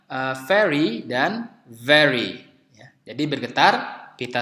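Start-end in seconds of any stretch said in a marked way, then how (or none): 0.5-2.4 first "very" as ferry, second "very" with buzzing v; slow pair, ferry then very; contrasting f and v. Shown as a demonstration. Teacher contrasting two words, slow ferry and very. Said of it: "Kemudian ada kata misalnya".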